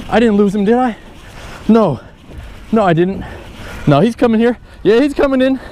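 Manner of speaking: worried, rising into relief; from fear of losing it to joy; anxious then relieved. Real, not acted. Fearing lost fish, then relief.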